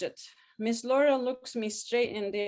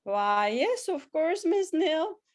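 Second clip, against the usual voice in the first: amused warm reply; 7 semitones higher, 4 dB louder, slower than usual. A narrator's reading. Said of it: "She cackles at my enthusiasm and responds".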